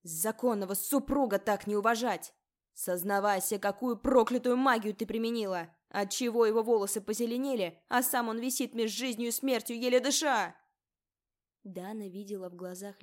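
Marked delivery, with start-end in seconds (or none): 0.0-10.6 high, shrill hysterical screaming rant; hysterical shriek. A narrator's reading. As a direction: scream in hysterical panic, pitch rising. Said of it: "Истеричный визг леди Морвин".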